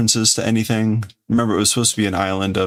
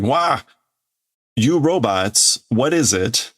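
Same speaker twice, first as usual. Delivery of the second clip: mock panic; 3 semitones higher, slower than usual. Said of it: "he is freaking out going".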